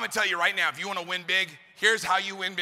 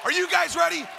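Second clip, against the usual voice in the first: rallying shout; 8 semitones higher than usual. Real, not acted. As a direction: roar it at the whole arena. Preacher rallies the audience.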